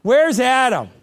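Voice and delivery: loud high calling out, slowing at the end; mock calling out for Adam; God calling for Adam. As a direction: call out mock-searching, big and high. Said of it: "He's walking through the garden going".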